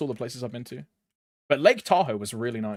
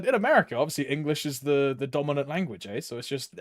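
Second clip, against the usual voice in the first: ordinary talk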